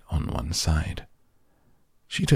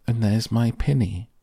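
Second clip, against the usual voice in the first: put-on higher, girlish cry of discovery; excited cry; 6 semitones higher, 4 dB louder than usual. A narrator's reading. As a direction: exclaim with lifted, eager pitch. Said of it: "cried Lucy".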